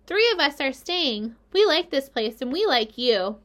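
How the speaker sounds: a hint of a baby spider; small spider voice. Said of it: "said a third voice".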